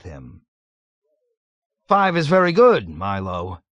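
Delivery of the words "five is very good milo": much higher, louder eager praise; enthusiastic. A narrator's reading. Colonel cheering up at Milo's count, eager loud praise. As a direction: grab at a ray of hope. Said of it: "he observed with enthusiasm".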